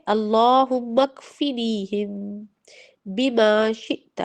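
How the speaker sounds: drawn out again, syllable by syllable; teacher repeating the dua slowly for children to echo. Shown as a demonstration. Slow, careful repeated recitation. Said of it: "ٹھیک ہے؟".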